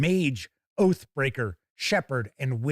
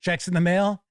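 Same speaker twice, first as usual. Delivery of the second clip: skeptical echo. Retold or imitated. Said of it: "That's actually what I said".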